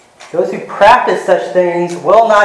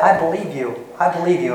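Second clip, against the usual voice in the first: sincere; 6 dB quieter than usual. Retold or imitated. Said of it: "he was sincere about that".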